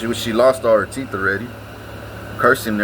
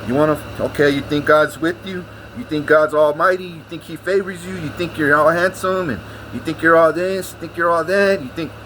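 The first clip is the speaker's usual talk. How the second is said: higher, taunting grandma voice, lightly done; mocking cocky grandma; 4 semitones higher than usual. Grandson mimics his cocky grandma taunting him, mildly mocking. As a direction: needle him like a smug grandma. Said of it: "My grandma was so cocky".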